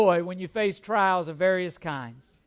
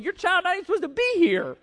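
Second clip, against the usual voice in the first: raised, higher, fast indignant comeback; hammed-up outrage at the pushy lady; mock-angry rant, higher and quick; indignant retort; 6 semitones higher, 3 dB louder than usual. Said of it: "I'm thinking".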